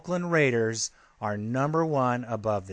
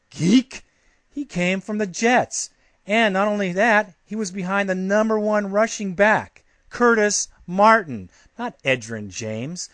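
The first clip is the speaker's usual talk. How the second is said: higher, louder, scornful tirade at the writer; mocking rant; 5 semitones higher, 4 dB louder than usual. Real, not acted. Host rants at Boston writer Bobby George, loud and mocking. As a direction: tear into him for getting it wrong.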